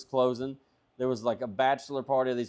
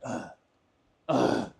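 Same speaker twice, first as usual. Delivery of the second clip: imitated exasperated huff; huffing and puffing. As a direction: huff like an annoyed clerk. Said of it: "she's, like, huffing and puffing".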